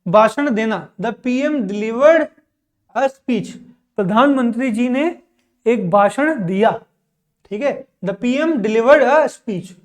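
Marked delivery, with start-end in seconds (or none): 1.0-3.5 every word drawn out, very slow; very slow dictation. Shown as a demonstration. Teacher dictating an example sentence to students, very slow. 8.1-9.7 every word drawn out, very slow; very slow dictation. Shown as a demonstration. Teacher dictating an example sentence to students, very slow.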